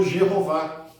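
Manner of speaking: Jeová begun with a J sound, H still sounded as double R; J pronunciation. Shown as a demonstration. Teacher showing how the name changed, Jeová with J and sounded H. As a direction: say Jeová as "djeh-ho-VÁ". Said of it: "já tinha se incorporado o J".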